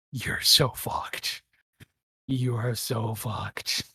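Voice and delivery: slow, lightly menacing taunt; slow and gloating, with a hint of menace; fanged captive's taunt. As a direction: draw each word out slowly, savouring the threat. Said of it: "smiles, flashing his fangs".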